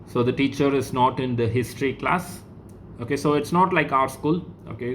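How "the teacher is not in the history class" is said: "the teacher is not in the history class" rising on "class" as a question; question intonation. Shown as a demonstration. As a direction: turn it into a question with a lift on "class". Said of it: "question mark".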